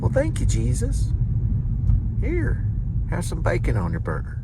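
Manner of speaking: high, delighted thank-you; grateful soul in heaven. Pretend. Thanking God for bacon in a high voice. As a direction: squeak out thanks to a generous God.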